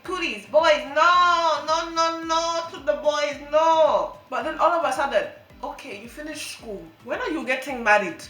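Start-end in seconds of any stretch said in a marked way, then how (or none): 0.0-4.2 loud mock parents saying no; scolding parents. Imitating parents forbidding boys, loud. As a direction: bark no at a child. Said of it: "your parents saying".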